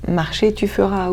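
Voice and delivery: slow Breton country phrasing; Breton turn of phrase. Shown as a demonstration. Actress showing Séraphine's Bretonnisms, slow Breton lilt. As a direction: lay out Marcher, tu feras slowly, Breton style. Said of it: "des bretonnismes très forts".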